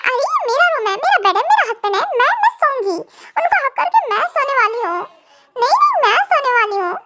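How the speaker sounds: laughs while claiming the bed; playful, giggling protest; wife laughing as she argues with the niece over the bed; laughing insistence. Acted.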